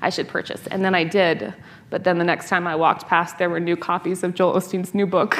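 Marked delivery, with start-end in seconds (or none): 0.0-0.7 quick, light and overly polite; politely, kindly. Retold or imitated. Gift shop worker politely humoring a customer, quick and light. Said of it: "very politely, just kindly was like".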